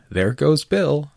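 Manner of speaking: chorus shout. Acted. The crowd cheering as Bill flies up, drawn-out shout. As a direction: draw it out like a crowd at a launch. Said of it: "a general chorus of".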